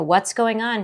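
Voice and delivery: insistent retold shout; retold scream. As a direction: push the question again, half-shouting. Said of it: "I was screaming at this point".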